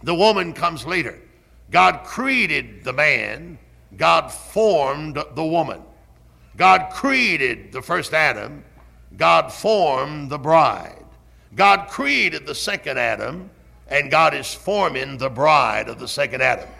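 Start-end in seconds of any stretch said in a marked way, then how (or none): 1.7-13.5 slow emphatic preaching. Acted. Slow emphatic sermon parallels.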